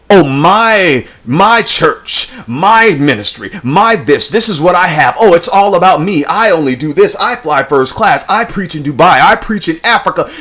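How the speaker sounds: lightly put-on voice, puffed up with self-importance; mock boasting. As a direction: list the boasts mockingly, stressing each "my" and "I". Mimicking self-important church leaders' boasts.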